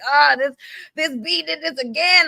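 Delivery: high, a light gossipy tea-sipping voice; gossipy angel. Retold or imitated. Girlfriend imagines angels sipping tea, lightly mocking gossipy voice. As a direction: lightly voice a gossipy angel rolling her eyes. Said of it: "My girl was like".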